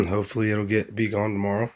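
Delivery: hoarse from a cold; scratchy, worn voice; raspy voice. Real, not acted. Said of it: "I'm sorry about the raspy voice".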